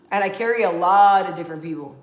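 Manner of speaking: emphatic. Real, not acted. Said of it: "repeats the statement".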